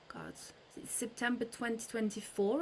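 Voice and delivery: breathy whisper after a gasp; startled hushed whisper. Real, not acted. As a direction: recall it under your breath. Gasps, recalls a date.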